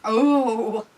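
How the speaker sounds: loud, stretched-out exclamation; mock astonishment. Reacting to commentator's champion prediction, mock amazed. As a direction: make a big show of it, slowly.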